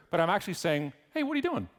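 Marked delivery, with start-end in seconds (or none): 1.1-1.7 bright curious "Hey, what are you doing?" with a high lifted "Hey"; curious friendly. Shown as a demonstration. Speaker showing the curious way to greet someone, lifted "Hey". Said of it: "'Cause I'm curious".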